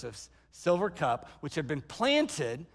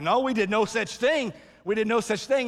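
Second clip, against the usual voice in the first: mildly indignant mock protest; indignant denial; 2 semitones higher, 3 dB louder than usual. Accused brothers protesting to Joseph, indignant.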